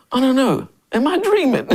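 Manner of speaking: high, laughing, can't believe it; amused, high-pitched wonder; laughing disbelief. Retold or imitated. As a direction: giggle through the question. Disbelief at breakfast scene.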